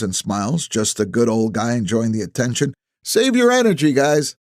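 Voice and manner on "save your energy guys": calling out cheerfully. Acted. Calling out to old folks.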